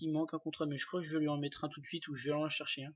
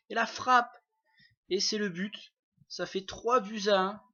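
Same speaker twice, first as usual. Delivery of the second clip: building play-by-play, peaking higher and louder on the shot; excited sports commentary; 4 semitones higher, 4 dB louder than usual. Acted. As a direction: rise to a shout on the strike. (commentaire sportif qui s'emballe jusqu'au but)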